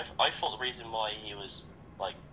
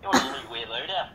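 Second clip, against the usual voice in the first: put-on higher, playful Scottish accent; 4 semitones higher than usual. Player clowning with teammate about a loader, Scottish accent. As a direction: ask it in a rough mock-Scottish accent. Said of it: "pretty sure that's Scottish".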